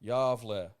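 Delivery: "Javle", two syllables, J like in jam. Shown as a demonstration. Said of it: "pronounced Javle".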